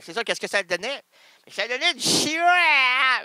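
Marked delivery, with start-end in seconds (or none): 1.4-3.2 high, loud put-on voice; mock exasperated. Answering the radio question with a high loud silly voice. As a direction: squeal it out like a silly caller.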